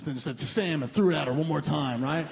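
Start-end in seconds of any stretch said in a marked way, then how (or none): 0.4-0.9 "Salmon" said with no L, thrown at her; salmon jab. Retold or imitated. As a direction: throw "Salmon" back without the L. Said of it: "Watch this".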